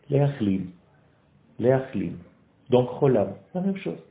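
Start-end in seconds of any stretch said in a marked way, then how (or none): 0.1-0.7 « Leachlim » spoken clearly, falling at the end; Hebrew word. Shown as a demonstration. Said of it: "Comment on dit soigner et guérir en hébreu?". 1.6-2.1 « Leachlim » spoken clearly, falling at the end; Hebrew word. Shown as a demonstration. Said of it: "Comment on dit soigner et guérir en hébreu?".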